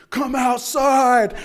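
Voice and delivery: high, loud, slow yell; retold scream. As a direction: bellow it into the rainy night.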